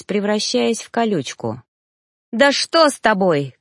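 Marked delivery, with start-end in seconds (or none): 2.3-3.6 shouted. Acted. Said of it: "крикнула Сия".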